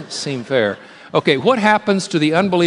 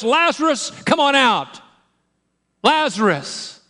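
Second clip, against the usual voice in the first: much higher, ringing call out to the tomb; loud cry; 12 semitones higher, slower than usual. Acted. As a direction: cry it out to raise the dead. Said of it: "he cried out with a loud voice".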